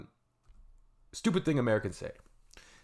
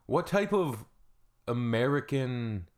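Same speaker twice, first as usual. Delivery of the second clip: outrage; 2 semitones higher than usual. Real, not acted. Outraged rant.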